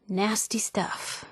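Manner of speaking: slow, breathless whisper. Acted. Companion eyeing a dangerous chem, whispered slowly. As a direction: hush it, slow and unvoiced.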